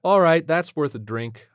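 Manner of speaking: wry space pilot; brisk pilot voice. Acted. Ariana voiced.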